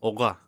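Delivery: "Oga" with the R rolled in the throat; French-style "Oga"; French throaty R. Shown as a demonstration. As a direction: say "Oga" as oh-RAH, guttural R. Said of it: "you need to somehow roll it".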